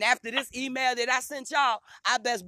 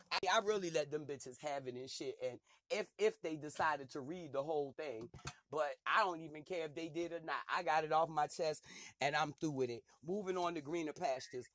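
quiet dismissive wrap-up; 7 semitones lower, 10 dB quieter than usual. Real, not acted. Dropping down, done with them.

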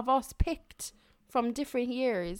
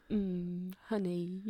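Winnie the Pooh; 5 semitones lower, 9 dB quieter, slower than usual. Retold or imitated. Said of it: "Your Winnie the Pooh impression".

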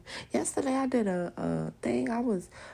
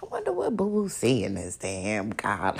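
mock suits; 10 semitones lower than usual. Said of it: "the people in the suits ask".

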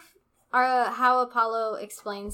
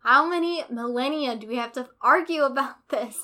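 annoyed sister; 2 semitones higher, 7 dB louder than usual. Retold or imitated. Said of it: "she's like".

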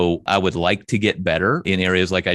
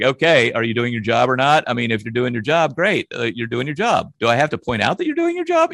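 impatient, pitch climbing to a high incredulous peak; blunt accountant; 4 semitones higher than usual. Retold or imitated. Boss to employee, lightly mocking himself, impatient and blunt. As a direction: read it like a numbers guy who doesn't see why praise is needed. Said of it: "So I'm an old accountant".

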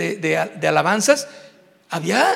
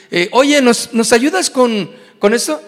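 asking for help; 6 dB louder than usual. Retold or imitated. Acted request to serve.

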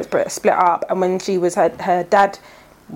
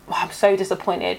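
mock disappointment; 3 semitones lower, 6 dB quieter than usual. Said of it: "it's like".

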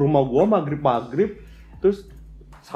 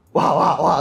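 muffled wah wah talk; slower than usual. Retold or imitated. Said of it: "dia ke rumah gua ngeblaf-ngeblaf".

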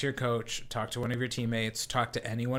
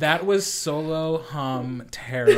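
laughing, slow; 2 semitones higher, 6 dB louder, slower than usual. Real, not acted. Still laughing at accent.

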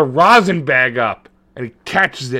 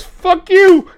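high, loud mock yell; sudden high shouted brush-off; 7 dB louder than usual. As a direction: bark it at her like a deadbeat dad. Father voiced leaving pregnant mother.

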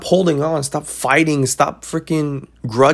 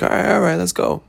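eager yes; 5 semitones higher than usual. Retold or imitated. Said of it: "You're like".

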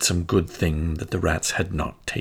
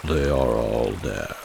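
put-on old rat voice; 10 semitones lower than usual. A narrator's reading. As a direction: voice the old white rat lowly. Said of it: "replied the white rat".

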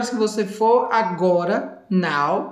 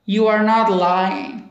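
slow demo; slower than usual. Shown as a demonstration. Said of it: "ele vai e responde ao Trevor".

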